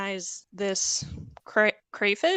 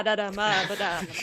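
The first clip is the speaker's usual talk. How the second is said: mock Italian gibberish. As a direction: fake some Italian in nonsense syllables. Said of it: "Just speaking Italian?".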